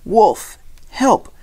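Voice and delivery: high, urgent cry for help; loud shout. A narrator's reading. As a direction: shout the alarm as loud as you can. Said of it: "shouted as loud as he could".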